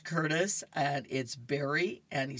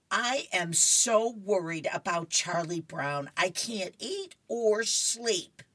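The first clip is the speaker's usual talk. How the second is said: fretting comic character; 4 semitones higher, 3 dB louder than usual. Acted. Voicing Lucy fretting in comic.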